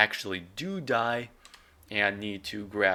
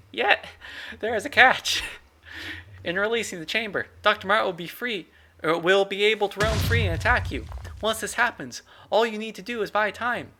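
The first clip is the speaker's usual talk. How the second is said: intern Steven voice; 10 semitones higher than usual. Acted. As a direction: yell it up high like an eager intern. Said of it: "intern Steven's voice".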